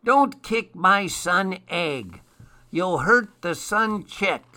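high protesting elf voice; crying out. A narrator's reading. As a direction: cry out to protect the egg. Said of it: "cried the elf".

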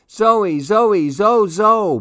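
put-on high happy toddler shout; baby shout. A narrator's reading. Baby Louie cheering the snowy dog, high toddler shout. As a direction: call out like a thrilled baby. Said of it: "Baby Louie shouted".

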